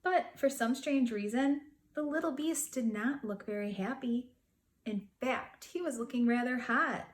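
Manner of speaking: put-on gentle read-aloud to children; storybook narration voice; story narration. A narrator's reading. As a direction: tell it like a bedtime picture book. Reading a picture book aloud.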